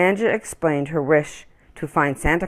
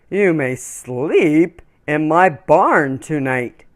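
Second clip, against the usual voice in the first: slow, unhurried big horse voice; gentle horse; 3 dB louder, slower than usual. Acted. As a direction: offer it kindly, slowly, like a big horse. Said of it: "he offered".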